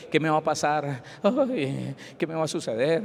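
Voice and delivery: whimpering mock fearful groan; mock trembling worry. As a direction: fret and moan like a scared believer, without raising the voice. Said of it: "ya no tiemble más pensando que".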